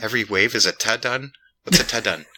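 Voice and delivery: "ta-dun" as two odd syllables, questioning; baffled echo of Scottish turn as "ta-dun"; puzzled mispronunciation. Retold or imitated. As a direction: repeat "ta-dun" like an unknown word. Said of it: "My wife was like".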